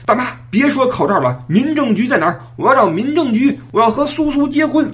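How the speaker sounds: urgent pleading. Retold or imitated. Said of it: "小伙子赶紧问".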